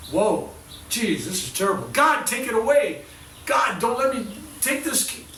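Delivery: high, loud pleading wail, rising to the top; hammed-up despair, begging God; mock anguished cry. Healer mimicking a sufferer's anguished plea to God. Mock complaint about pain.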